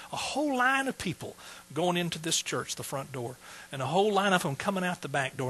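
ordinary talk

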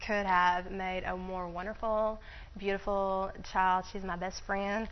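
slow down, moved almost to tears; tearing up. Real, not acted. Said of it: "I'm gonna cry about that".

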